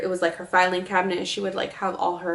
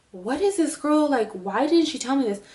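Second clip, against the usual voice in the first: panicked inner voice; 6 semitones higher than usual. Retold or imitated.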